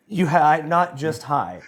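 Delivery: retold indignant denial; emphatic protest. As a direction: push back with hammed-up insistence. Acting his protest to wife.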